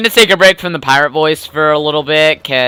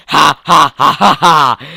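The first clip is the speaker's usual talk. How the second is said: louder mocking pirate laugh; haughty laugh; 4 dB louder than usual. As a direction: scoff with a boastful ha ha. Boastful pirate scoffs at hero.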